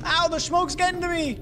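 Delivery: frantic as the smoke hurts; panic. Real, not acted. Player choking in smoke, rising panic. Smoke hurting him in game.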